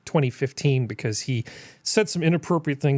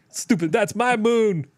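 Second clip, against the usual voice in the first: sputtering foiled villain; 6 semitones higher, slower than usual. Pretend. Voicing the moon-fist-shaking guy.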